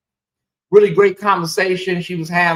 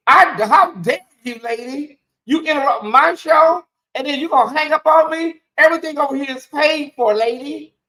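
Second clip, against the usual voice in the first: indignant scolding; 6 semitones higher than usual. Real, not acted. Scolding caller who hung up.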